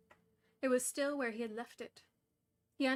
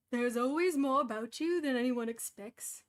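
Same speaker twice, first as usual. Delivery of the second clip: 1 Gandalf voice; 6 dB louder than usual. Acted. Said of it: "Doesn't sound like Gandalf".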